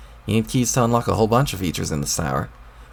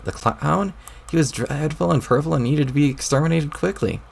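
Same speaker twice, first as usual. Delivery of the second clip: put-on higher, peevish young troll snapping back; irritated troll boy; 5 semitones higher than usual. A troll boy talking back to the voice in his head, irritated.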